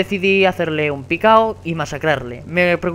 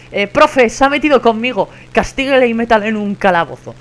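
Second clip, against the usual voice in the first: put-on whiny tattletale kid; 4 semitones higher, 4 dB louder than usual. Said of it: "En plan".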